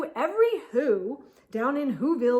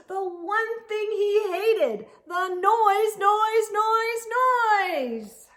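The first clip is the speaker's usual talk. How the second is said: high, louder, fed-up rant; ranting Grinch; 9 semitones higher, 5 dB louder, slower than usual. Acted. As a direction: spit out each noise in disgust. Grinch rants about the noise.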